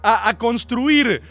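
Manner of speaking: fed-up outburst. Real, not acted. Venting at tweeters who arrived late, indignant rant. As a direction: snap back at the pundits. Ranting against solemn tweeters.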